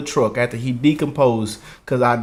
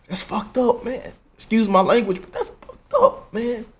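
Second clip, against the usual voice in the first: real outrage; 9 semitones higher than usual. Real, not acted. Vlogger venting to viewers about his dad, outraged and high. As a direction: voice jumping high in disgust. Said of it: "I'm pissed".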